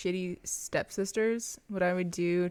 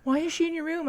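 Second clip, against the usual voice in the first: mock stepsister; 11 semitones higher, 4 dB louder, faster than usual. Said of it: "And they were like".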